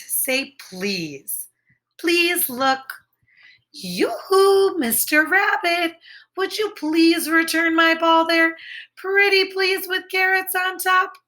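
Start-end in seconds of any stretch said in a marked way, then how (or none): 3.7-11.1 higher, sing-song yoo-hoo plea; sweet pleading call. Acted. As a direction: coax the rabbit sweetly, higher. Character sweetly asks for ball.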